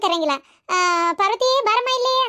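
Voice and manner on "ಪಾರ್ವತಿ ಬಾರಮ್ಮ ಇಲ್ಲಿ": sweet calling. Retold or imitated. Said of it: "ಅಂತ ಹಿಂಗ್ ಕರಿತಾರಲ್ಲ".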